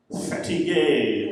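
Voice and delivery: put-on slow, drawn-out French-accented "fatigué"; mock French accent. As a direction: stretch "fatigué" out like a caricatured French speaker. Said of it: "that's what they sound like".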